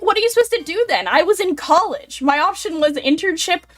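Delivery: high, fast incredulous rant; exasperated quote. Retold or imitated. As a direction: complain it fast and high in disbelief. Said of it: "I'm like".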